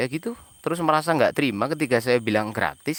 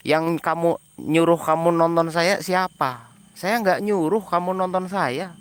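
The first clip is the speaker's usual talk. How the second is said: heated rant; 4 semitones higher than usual. Real, not acted. Ranting at commenters about data.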